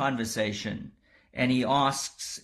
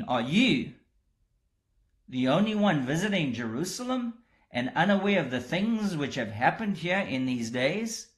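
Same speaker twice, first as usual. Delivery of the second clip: astonished retort; 3 semitones higher than usual. Retold or imitated. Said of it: "There's astonishment on the part of Cleopas".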